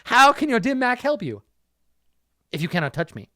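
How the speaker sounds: loud mocking taunt; taunting shout. Villain taunting the old master, loud and mocking. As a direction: yell it down at the old man. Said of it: "De Aragon sneered".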